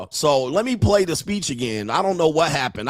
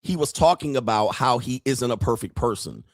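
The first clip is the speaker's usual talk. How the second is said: normal talking voice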